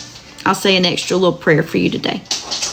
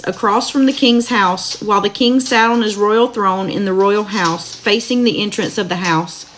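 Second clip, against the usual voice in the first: steady, measured Bible reading aloud; scripture reading; 2 semitones higher than usual. Acted. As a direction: read the verses evenly to listeners. Reads Book of Esther aloud.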